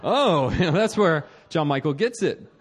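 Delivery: amused chuckle through the words; laughing quote. Retold or imitated. Wife teasing him about his planning family, laughing. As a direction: laugh as you tease him. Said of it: "And she's like".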